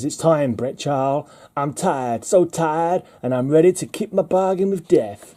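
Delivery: put-on weary lines in a wobbly Southern accent; bad Southern accent. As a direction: attempt a Southern granny accent, badly. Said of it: "That was a really bad accent".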